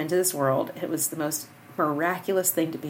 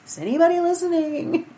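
doubting thought; 11 semitones higher, 6 dB louder than usual. Retold or imitated. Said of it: "you think, like".

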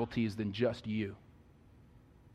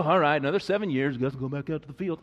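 resigned shrug; 4 dB louder, faster than usual. Retold or imitated. Jacob's resigned reply mimicked.

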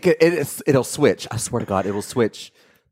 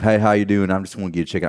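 put-on country accent of Laotian rednecks; imitated Southern-Laotian redneck talk. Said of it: "they talk like this".

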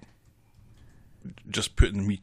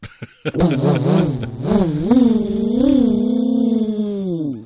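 motorcycle revving sound; 11 semitones higher, 7 dB louder than usual. Real, not acted. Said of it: "I can do a motorcycle noise".

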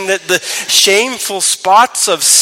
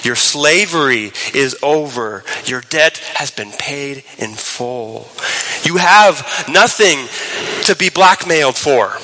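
tender; 3 semitones lower than usual. Acted. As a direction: speak it gently, like God consoling his child. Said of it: "God says tenderly to us".

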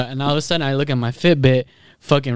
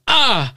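mock pained yelp; 10 semitones higher than usual. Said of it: "I went".

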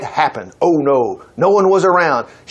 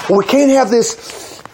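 mock prudish voice. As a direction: poke fun at the prudes as you say it. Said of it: "we tried to make it look like".

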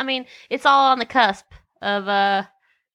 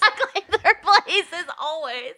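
laughing; 5 semitones higher than usual. Acted. Laughing repeat of quote.

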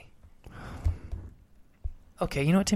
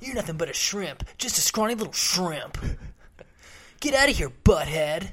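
put-on nineties teen bully. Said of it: "older brother's a-hole best friend".

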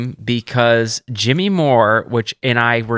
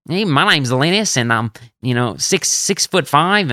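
lightly imitated Aussie voice; Linus's Australian accent. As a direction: do a hint of a big Aussie bloke's accent. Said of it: "that voice".

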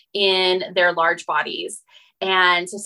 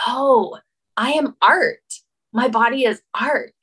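higher, louder "Oh, I am art"; dawning realisation; 5 semitones higher, 3 dB louder than usual. Retold or imitated. Nude model quoting her own breakthrough, amazed. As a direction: let it land as a revelation.

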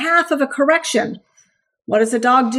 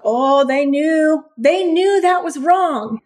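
mocking owners; slower than usual. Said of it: "People are like".

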